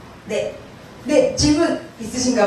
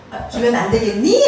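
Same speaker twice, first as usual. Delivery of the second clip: put-on joking Seoul-accent question with an upswept ending; imitation of affected Seoul speech; mimicked Seoul accent. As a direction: playfully copy the put-on Seoul accent with a sharp final rise. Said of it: "저도 사투리 쓰면 안 되는데".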